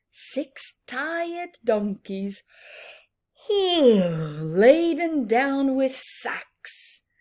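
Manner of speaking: slow, sighing, tired-sounding read; weary read-aloud. Acted. Teacher voicing the tired donkeys for the children, slow and sighing.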